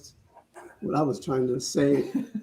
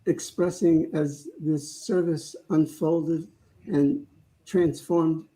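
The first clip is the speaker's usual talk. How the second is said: closing prayer. Real, not acted. Leads closing prayer, eyes closed.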